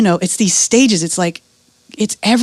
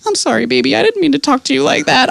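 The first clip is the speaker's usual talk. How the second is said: high, sweetly apologetic wife; put-on higher voice, making up to baby; sudden sweet apology; 5 semitones higher than usual. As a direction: imitate her turning tender with her husband. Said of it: "immediately flips on a dime".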